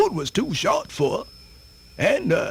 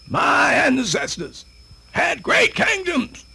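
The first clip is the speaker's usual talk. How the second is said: proud proclamation; 4 semitones higher than usual. Acted. Proudly proclaiming ancestral kingdoms.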